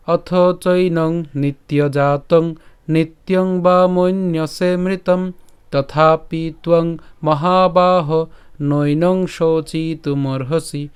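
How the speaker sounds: slow, even chant on a level pitch; shloka recitation. Shown as a demonstration. Teacher shows how the whole verse is read, slow chant. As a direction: intone the verse with long held syllables. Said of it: "আমি আবার বলছি".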